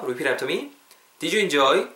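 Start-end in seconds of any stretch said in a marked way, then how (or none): 1.2-1.9 "Did you enjoy?" linked as "di-ju in-joy", rising; "Did you enjoy?" with "did you" run together; model pronunciation. Shown as a demonstration. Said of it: "따라해보세요".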